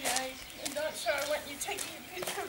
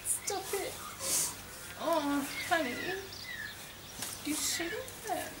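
overwhelmed, softer; 3 semitones higher, 3 dB quieter than usual. Real, not acted. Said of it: "I'm so overwhelmed".

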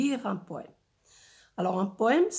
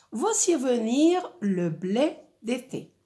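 carefully articulated, lilting line of verse; poetic reading; 3 semitones higher than usual. Shown as a demonstration. Teacher reads the summer wheat verse to pupils, poetic reading. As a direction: recite it as a line of poetry. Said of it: "un rythme et un ton, euh, poétique".

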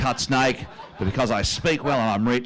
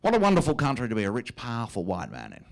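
smug inner thought. Retold or imitated. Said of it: "I think".

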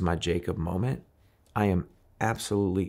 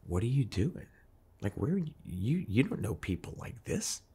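devil's voice; 5 semitones higher than usual. Retold or imitated. The devil on his shoulder taunting him, lightly voiced. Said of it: "the first time I knew what the devil sounded like".

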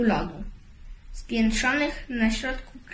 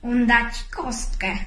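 scorpion calling out; 2 semitones higher, 3 dB louder than usual. A narrator's reading. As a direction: stop him before he shoots, loudly. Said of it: "kiedy skorpion zawołał". (głośne, spanikowane wołanie skorpiona)

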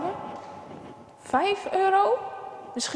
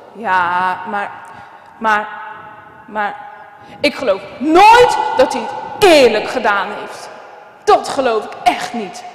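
loud, stuck on maar, then bursting out; boy who won't believe it, shouting; furious boy; 4 semitones lower, 4 dB louder than usual. Acted. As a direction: sputter with rage at the unfairness. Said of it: "En hij is woedend".

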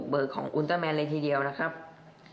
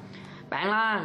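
higher pretend hero call of แปลงร่าง; Thai transformation cry; 7 semitones higher, much slower than usual. Reviewer doing the Thai version, mock hero cry. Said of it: "ภาษาบ้านเราบ้าง".

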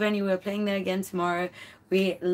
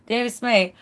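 loud; 2 semitones higher, 8 dB louder than usual. Real, not acted. Thanking a generous fan.

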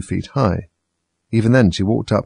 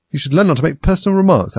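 a touch of stern rebuke, higher; with some severity; 8 semitones higher, 4 dB louder than usual. A narrator's reading. Alice reproves the Hatter, mildly severe. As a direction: scold him a little, primly. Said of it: "Alice said with some severity".

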